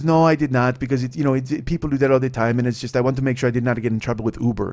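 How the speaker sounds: lightly voiced Mexican accent; heavy Mexican accent. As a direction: quote the passenger with a Mexican accent. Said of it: "she had a really heavy accent".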